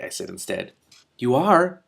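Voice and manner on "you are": skeptical. Acted. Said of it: "Sue said skeptically".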